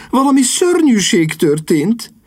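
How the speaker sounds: szörnyűség stressed with a high rise; urgent high alarm; agitated news of disaster; high, agitated lady. Acted. Repeats the bad news.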